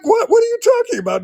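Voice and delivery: a startled yell, half laughing; astonished outburst. Retold or imitated. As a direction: shout it high and fast in disbelief. Retold shock meeting the monk.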